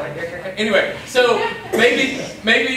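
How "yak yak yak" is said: lightly mocking yak yak chatter; mock gossip chatter. Preacher mocking students gossiping on way to lunch, mild mock chatter. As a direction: rattle off yak yak like idle gossipers. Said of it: "that's how they sound".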